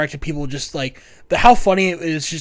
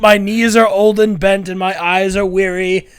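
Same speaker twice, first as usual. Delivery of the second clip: put-on old man disguise; 4 semitones higher, 5 dB louder than usual. Rebels disguised as furniture.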